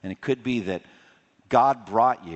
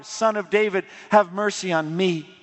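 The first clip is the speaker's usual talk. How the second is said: an even higher, louder plea for mercy; crying all the louder; 8 semitones higher, 3 dB louder than usual. Retold or imitated. Bartimaeus shouting past the crowd that hushed him, higher and louder. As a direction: call out over the crowd trying to hush him. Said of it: "But he cried all the louder".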